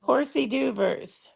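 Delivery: horsey doovers said slow and high; drawn-out horsey doovers; mock pronunciation. Shown as a demonstration. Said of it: "is what I call 'em".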